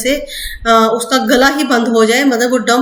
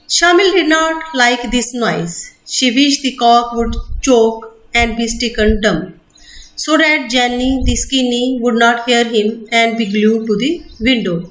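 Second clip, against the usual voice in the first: slow, deliberate textbook reading; measured classroom reading; slow reading aloud; much slower than usual. Acted. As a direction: read each word out carefully for students. Reading English text aloud slowly.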